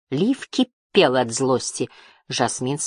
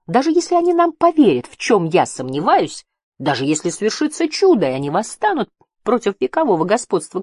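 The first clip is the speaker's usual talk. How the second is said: high, insistent voice, louder on key phrases; high-pitched, pressing challenge; heated argument; 8 semitones higher, 5 dB louder than usual. A narrator's reading. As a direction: argue it out in a rising, exasperated pitch.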